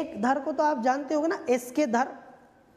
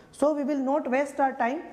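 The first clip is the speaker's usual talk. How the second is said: slow aside; much slower than usual. Real, not acted. Teacher dismissing an unimportant session.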